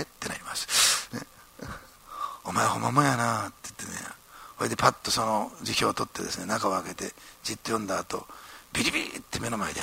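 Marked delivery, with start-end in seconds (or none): 2.4-3.5 Osaka dialect. Retold or imitated. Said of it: "こう大阪弁です".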